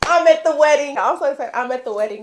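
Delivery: can't contain the thrill; real excited shriek; excited screaming. Real, not acted. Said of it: "I'm sorry for all the screaming".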